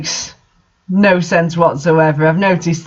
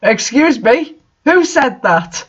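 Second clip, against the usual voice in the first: hammed-up yell, higher and slow; mock yell; 7 semitones higher, slower than usual. A narrator's reading. Janitor demands who spoke, mock yell. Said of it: "yelled Mister Norris".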